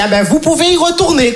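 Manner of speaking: high, relieved granny voice; delighted old lady. Retold or imitated. Yvonne hears the joke and is delighted, high granny voice. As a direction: chirp it with relief.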